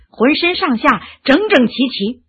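plain reading voice

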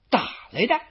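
scornful questioning echo in a put-on voice; mocking echo. Xu You sneers back at Xu Chu's boast. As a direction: toss his words back with contempt.

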